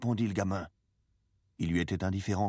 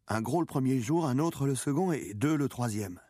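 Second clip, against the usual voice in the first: put-on higher-pitched, lively young boy; boy reporting proudly; 7 semitones higher, 3 dB louder than usual. A narrator's reading. Boy telling the old man his catch, proud. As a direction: count off the catch in a raised pitch.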